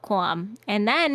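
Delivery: put-on Audrey-style New York accent; hammy musical-theatre New York accent; Little Shop of Horrors accent. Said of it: "Little Shop of Horrors accent".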